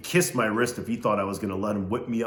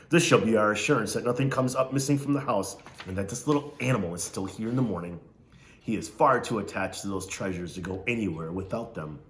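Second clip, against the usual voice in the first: Missus Amos. Acted. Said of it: "She talked like this".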